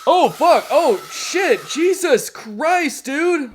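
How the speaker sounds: real jump-scare yelps, high and loud; shocked outburst after a scare; startled swearing. Real, not acted.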